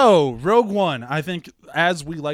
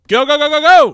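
excited countdown; 11 semitones higher, 14 dB louder than usual. Real, not acted. Starts the thirty-second timer.

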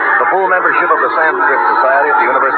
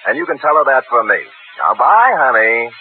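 fake cheery cover; 4 semitones higher than usual. Sam covering the call as a girl's call.

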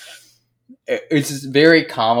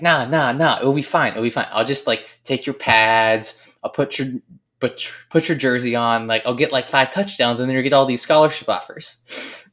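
grinning pitch; 2 semitones higher, 5 dB louder than usual. Retold or imitated. Injured friend talking Zach into swapping jerseys, grinning. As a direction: sell the mad plan with a grin.

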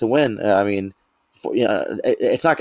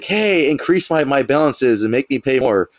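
mock screaming; 4 semitones higher than usual. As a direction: call out as if yelling, without real volume. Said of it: "that's like me screaming to my Bills".

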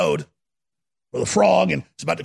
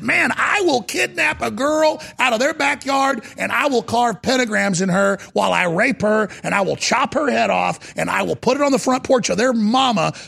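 raised-voice mock bragging; boastful gangbanger; 5 semitones higher than usual. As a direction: boast hard to impress the bosses.

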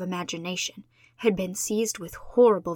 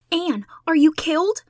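a much higher, loud frightened shriek; 9 semitones higher, 8 dB louder than usual. A narrator's reading. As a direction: scream out in panic for a friend. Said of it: "shrieked Diana".

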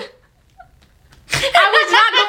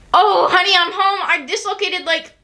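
breezy worker coming home; 3 semitones higher than usual. Retold or imitated. Acting injured worker coming home.

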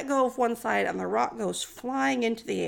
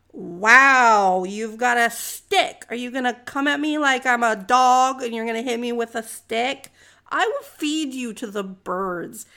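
insulted giant; 5 dB louder than usual. Retold or imitated. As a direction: retell an offended giant's taunt, slowing for the threat. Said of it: "he's mad. He's like, he's insulted".

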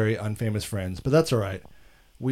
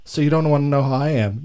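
mock affronted; 3 semitones higher, 5 dB louder than usual. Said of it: "give me a look like".

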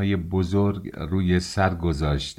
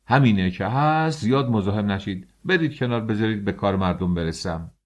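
angry dismissal; 2 semitones higher than usual. Acted. Census official angrily dismisses the father and crowd. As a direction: shoo the pest away in irritation. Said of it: "با عصبانیت".

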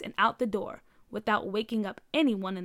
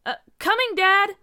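calling out; 10 semitones higher, 8 dB louder than usual. A narrator's reading. Answering dad's panicked call.

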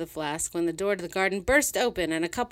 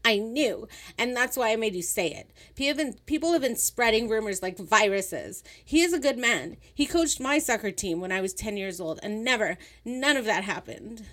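heated rant; 4 semitones higher than usual. Acted. Sylvia ranting defending a man.

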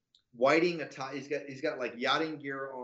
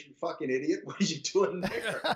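higher, incredulous retold telling-off; exasperated scolding; 4 semitones higher, 3 dB louder than usual. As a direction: imitate someone berating a clueless caller. Trump berates him on phone.

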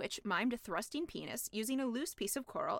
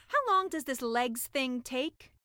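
slow, louder puzzled mermaid; impatient mermaid; 5 dB louder, slower than usual. Acted. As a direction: drag it out, waiting for legs. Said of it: "she asked the sea witch".

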